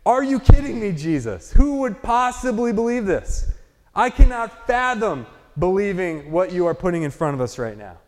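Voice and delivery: incredulous objection. Retold or imitated. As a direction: voice the crowd's "are you kidding me". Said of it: "Essentially, they're saying".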